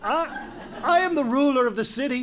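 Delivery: stammering, half-laughing outrage; flustered indignation. Acted. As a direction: splutter at the insult. King in heated argument.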